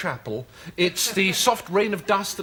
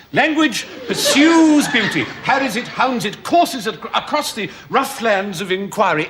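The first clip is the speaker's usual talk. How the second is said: soaring grand oration; 3 semitones higher than usual. Acted. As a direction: sweep up into a grand flourish.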